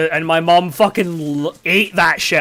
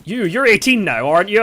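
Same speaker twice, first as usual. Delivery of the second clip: put-on lighter Welsh accent, less high; toned-down Welsh accent; 4 semitones higher, 4 dB louder than usual. Granddad asking again, in a toned-down Welsh accent. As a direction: redo the Welsh granddad, more restrained. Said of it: "I apologize for my shit Welsh accent".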